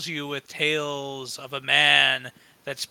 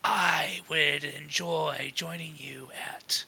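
creepy bard voice; 5 dB quieter than usual. Acted. Bard character speaking in whisper.

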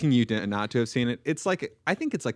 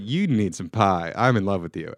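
slightly slow, louder mock lovestruck line; smitten waitress; 2 semitones lower, 5 dB louder than usual. Waitress to the brooding stranger, mock smitten. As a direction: play a lightly hammed-up waitress falling for him.

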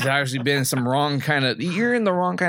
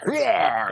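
mock roar; 3 semitones higher than usual. Imitated roar in retold scene.

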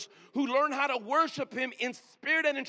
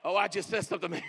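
laughing; 5 semitones lower, faster than usual. Real, not acted. Laughs after own point.

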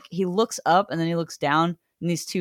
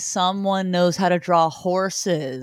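sarcastic mock announcement; 3 semitones higher, 4 dB louder than usual. Mocking the artist's horse drawing.

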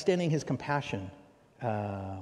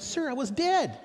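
matter-of-fact reply; 6 dB louder than usual. Retold or imitated. Man's deadpan punchline retold.

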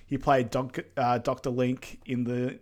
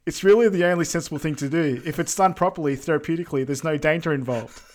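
imitating calm man; 3 semitones higher, 4 dB louder than usual. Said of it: "And then the man goes".

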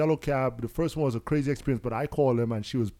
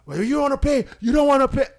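mocking cabbie; 11 semitones higher, 6 dB louder than usual.

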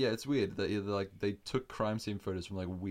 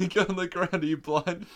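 high, loud, jokey command; mock cop shouting; 9 semitones higher, 9 dB louder than usual. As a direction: yell it as the same rude cop. Joking impression of same cop.

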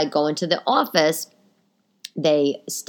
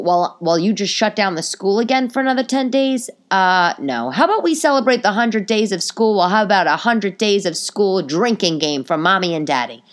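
sarcastic rant; 4 dB louder than usual. Real, not acted. Venting sarcasm at school.

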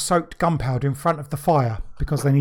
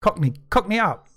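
mock Cockney; 4 semitones higher than usual. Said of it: "Go on".

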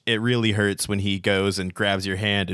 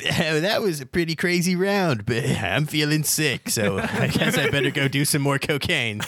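TV host voice; 5 semitones higher than usual. Acted. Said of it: "Ryan Decrest says".

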